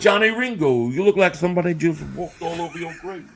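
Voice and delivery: put-on Southern accent, lively opening; Doc Holliday. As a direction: play it up with a thick Southern twang. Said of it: "like Doc Holliday".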